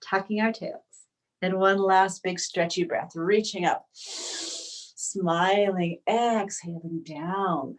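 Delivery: unhurried yoga teacher, long pauses between phrases; spacious, breath-led instruction; guided yoga meditation. Real, not acted. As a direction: guide them gently into breath and stretch. Leads yoga breathing practice.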